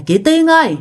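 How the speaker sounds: haunting voice calling Chị Tiên from the dark; ghostly calling. Retold or imitated. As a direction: call her name like a ghost from outside the house. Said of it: "kêu rằng á là".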